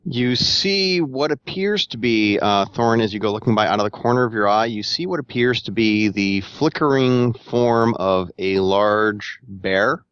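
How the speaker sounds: measured, suspenseful scene setting; game master narration. Acted. Game master describes a flickering shape to a player, measured narration. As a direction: draw out key words as you narrate.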